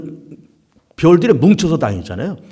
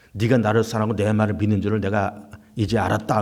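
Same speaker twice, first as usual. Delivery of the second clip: gentle voice of God; 8 semitones lower, 7 dB quieter than usual. Acted. God speaking to Abraham.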